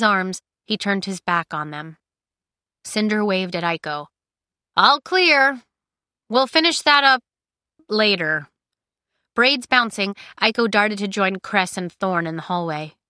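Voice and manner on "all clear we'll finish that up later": calling out. Acted. Cinder calls to hiding Aiko.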